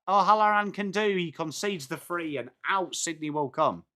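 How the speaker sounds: running match commentary, lightly lifted pitch; live play-by-play. Real, not acted. Streamer calling Sydney's attack for viewers, live commentary. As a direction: call the play as it unfolds.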